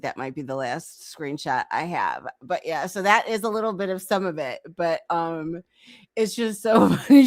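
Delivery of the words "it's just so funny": laughing through the words; can't hold back the giggles. Real, not acted. Laughing at the chat exchange.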